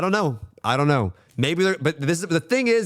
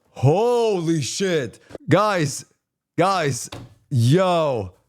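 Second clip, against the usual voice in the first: higher, slow drawn-out amazement; hyped-up gasp; 5 semitones higher, much slower than usual. Real, not acted. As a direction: savor it like a dream roadmap. Hyping his own roadmap idea.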